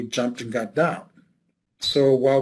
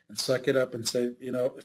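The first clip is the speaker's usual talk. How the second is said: ordinary talk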